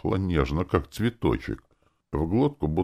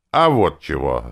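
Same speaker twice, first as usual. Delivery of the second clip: defiant retort; 6 dB louder than usual. Acted. Clerk answers then shoots.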